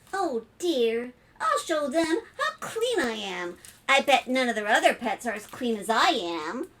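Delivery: a hint of a boastful little spider; lightly voiced eager spider, undaunted. Spider hoping to impress with cleanliness, lightly voiced boast. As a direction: lightly play a spider bouncing back.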